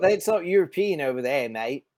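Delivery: put-on accent between Australian and British. Co-host mocking friend's accent, wavering British-Australian accent. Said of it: "getting me into a British accent".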